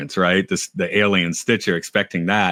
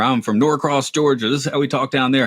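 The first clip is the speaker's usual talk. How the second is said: higher-pitched mock redneck accent; David Cross redneck routine; 5 semitones higher than usual. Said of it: "all the rednecks talk the same".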